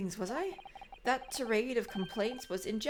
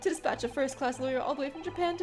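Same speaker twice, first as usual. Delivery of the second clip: louder, grandiloquent eccentric poet; theatrical poet; 6 semitones higher, 6 dB louder than usual. Acted. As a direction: declaim like a melodramatic bard. Soseki's voice again.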